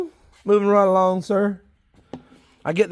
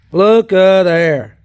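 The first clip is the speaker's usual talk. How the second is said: admiring; 9 dB louder, much slower than usual. Real, not acted. Admiring big worms.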